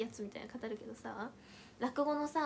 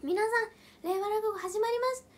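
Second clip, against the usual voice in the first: higher, louder emcee announcement; bright mock-MC opener; stage opening call; 7 semitones higher, 6 dB louder than usual. Shown as a demonstration. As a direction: open the show to the crowd. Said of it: "再現すると".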